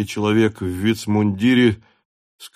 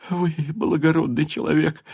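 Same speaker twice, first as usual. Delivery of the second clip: sobbing, rushed; 7 semitones higher than usual. A narrator's reading. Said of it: "скороговоркой всхлипывая".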